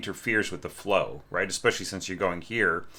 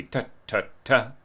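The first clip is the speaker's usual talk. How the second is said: tongued syllables; 3 semitones higher than usual. Shown as a demonstration. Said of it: "then this would just be tongue".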